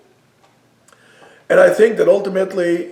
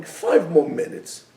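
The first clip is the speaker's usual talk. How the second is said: slow coaxing; slower than usual. Retold or imitated. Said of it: "that's the voice that goes in our heads".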